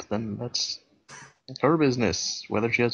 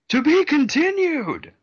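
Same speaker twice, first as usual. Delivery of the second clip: very high, slow, loud announcer cry; dramatic sign-off; 6 dB louder, slower than usual. Acted. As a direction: end the episode with a flourish. Dramatic episode ending.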